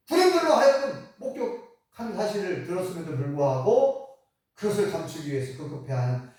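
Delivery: ordinary talk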